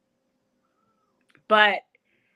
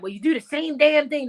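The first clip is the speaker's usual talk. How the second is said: quoting gruff teacher; 4 semitones higher than usual. Retold or imitated. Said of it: "That's how he said it to me".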